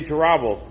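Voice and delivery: terrible said as tuh-ROB-ul; terrible with a broad, stressed "ROB" in the middle; jokey wrong stress. Pretend. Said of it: "put the emphasis on the wrong syllable".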